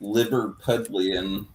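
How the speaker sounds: Liverpudlian said slowly, syllable by syllable, ending on a rise. Shown as a demonstration. Teaching a friend the word, slow and rising. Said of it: "You know what the adjective to, for Liverpool is?".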